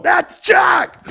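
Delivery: high, loud exclamation of recognition; astonished shout. Retold or imitated. Pastor spots Chuck waddling down the aisle, astonished shout. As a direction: call it out high and amazed. Acts out spotting Chuck in church.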